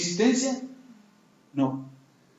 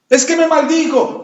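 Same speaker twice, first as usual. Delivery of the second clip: whiny excuse-maker; 5 semitones higher than usual. Retold or imitated. Mocking excuses of the unforgiving.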